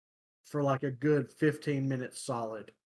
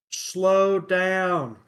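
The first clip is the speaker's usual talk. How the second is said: raised, louder shout imitating a stranger; retold yell; 6 semitones higher, 9 dB louder than usual. Pedestrian yelling at a passing driver, imitated yell. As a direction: call it out loud and high, as he did. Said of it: "he yells at me".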